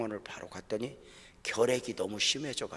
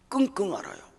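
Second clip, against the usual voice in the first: emotional cry; 10 semitones higher, 6 dB louder than usual. Real, not acted. Describing wife's groaning.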